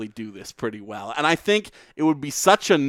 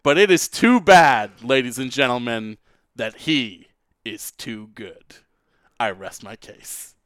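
slow lawyer closing; 3 dB louder than usual. Pretend.

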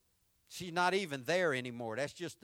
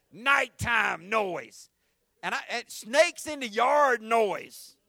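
eerie build; 5 semitones higher, 9 dB louder, slower than usual. A narrator's reading. Spooky night description.

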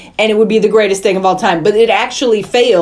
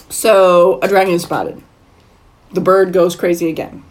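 put-on Southern accent; 4 semitones lower than usual. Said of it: "what's with the Southern accent?".

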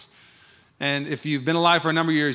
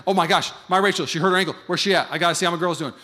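panicked rush; 3 dB louder than usual. Retold or imitated. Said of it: "I'd be sprinting".

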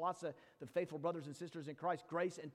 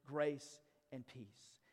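gentle words; 3 semitones lower, much slower than usual. Shown as a demonstration. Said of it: "it would be those very words".

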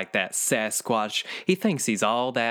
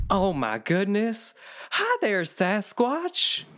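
much higher, sing-song gushing creature; sweet creature greeting; 9 semitones higher, slower than usual. Acted. Swamp creature meeting Sasquatch, much higher and sing-song. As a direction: coo it up high at the big guy.

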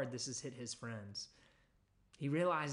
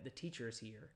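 softer, hushed, just for her; private hush; 3 semitones lower, 6 dB quieter than usual. Acted. Martha quietly telling Mary in private. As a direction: say it low in private to her sister. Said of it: "saying to her in private".

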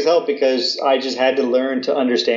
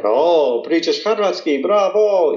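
impressed locals; 5 semitones higher, slower than usual. Retold or imitated. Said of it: "everyone's like".

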